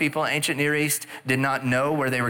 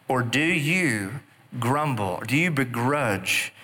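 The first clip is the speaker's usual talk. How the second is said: slow, measured challenge; slow pointed rebuke; slower than usual. Acted. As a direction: drag each word out to make them think. Manager rebukes the grumbling workers.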